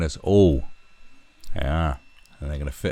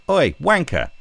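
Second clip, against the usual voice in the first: mock shout; 9 semitones higher, 6 dB louder than usual. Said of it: "you just have to go".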